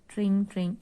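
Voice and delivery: ringing bell sound in words; imitated bicycle bell. Shown as a demonstration. Teacher giving a cycle riddle to pupils, imitated bell ringing. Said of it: "but sometimes goes".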